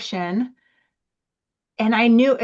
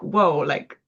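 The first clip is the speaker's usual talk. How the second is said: put-on a laughing, childlike "whoa", pitched up; bewildered kid; 7 semitones higher, 4 dB louder than usual. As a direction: play a startled six-year-old, half laughing. Imitating a bewildered young child.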